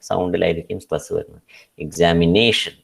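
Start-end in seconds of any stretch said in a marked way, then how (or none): 1.8-2.7 "Examination" stressed on NA; exami-NA-tion, weight just before the ending; stress on second-last syllable. Shown as a demonstration. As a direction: lean on NA in "Examination". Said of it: "second last syllable ആയിരിക്കും stress".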